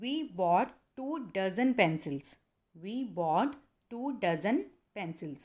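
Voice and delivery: "dozen" and "pencils" said slowly and clearly; slow correct model, word by word. Shown as a demonstration. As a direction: break the sentence into chunks, then say it again. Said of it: "आपने कहना है". ("dozen" पर ज़ोर देकर धीरे-धीरे बोलें)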